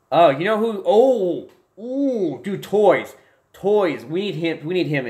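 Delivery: high, loud burst of excitement; light up as the idea hits; excited. Real, not acted. Streamer suddenly remembers his funny friend, high and excited.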